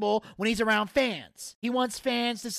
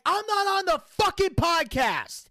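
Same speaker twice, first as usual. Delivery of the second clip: mock-furious raised voice; retold angry screaming; 7 semitones higher than usual. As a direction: re-enact an exasperated protest, stretching every word. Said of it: "I am fucking screaming at Alan Funk".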